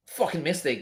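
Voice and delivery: ordinary talk, nothing marked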